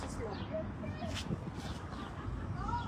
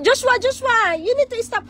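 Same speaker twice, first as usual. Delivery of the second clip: sharp playground warning; 8 semitones higher than usual. Real, not acted. Calling a child to stop.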